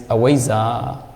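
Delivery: "avijja" with w and z, ah-WAY-zah; Burmese pronunciation. Shown as a demonstration. Teacher contrasting local and international forms, Burmese pronunciation of "avijja". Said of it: "Burmese pronunciation is".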